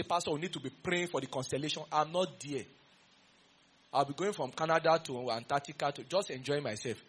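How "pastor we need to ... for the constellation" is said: mock plea. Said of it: "don't open your mouth and say".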